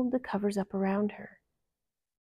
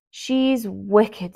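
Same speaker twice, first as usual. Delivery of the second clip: lightly voiced timid dwarf; Bashful condemning the queen; shy dwarf; 6 dB louder than usual. A narrator's reading. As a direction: say it solemnly. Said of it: "said Bashful".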